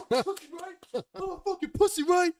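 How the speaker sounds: very high, loud furious scream; screaming in his face. Retold or imitated. In the brother's face during the fight, furious scream. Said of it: "I'm in his face screaming".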